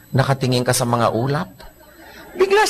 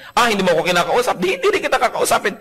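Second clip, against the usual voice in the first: higher, petulant comeback; sulky tit-for-tat; 5 semitones higher than usual. Acted. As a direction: throw it back sulkily. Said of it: "Hindi mo na malaman kung sino nag-umpisa". (nagtatampong ganti)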